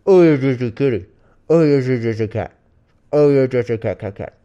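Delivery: sing-song coo at the kitty. Real, not acted. Owner cooing baby talk at her cat on camera. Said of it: "This is what I do".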